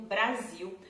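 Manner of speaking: Brasil with a z sound and the final L as w; Brazilian Brasil. Shown as a demonstration. Teacher modelling the Brazilian Brasil. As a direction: Brasil said /bɾaziw/. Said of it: "Eu vou usar essa palavra mesmo".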